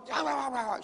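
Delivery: wordless "rah rah" grumbling; mock angry ranting. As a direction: imitate a ticked-off tirade in nonsense noise. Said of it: "I'm ticked off".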